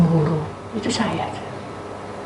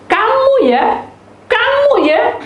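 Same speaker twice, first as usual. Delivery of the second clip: mock angry scolding; 4 dB louder, slower than usual. Retelling scolding his siblings.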